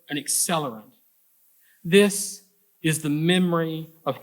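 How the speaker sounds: measured, emphatic poem recital with deliberate phrase breaks; poetry reading. Acted. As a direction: read the poem out to an audience, stressing key images. Reads second poem aloud.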